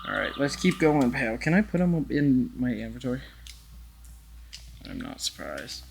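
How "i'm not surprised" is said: much lower, softer deadpan; low, quiet deadpan repeat; deep deadpan. Acted. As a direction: drop the voice low and quiet for the callback. Repeats his earlier line.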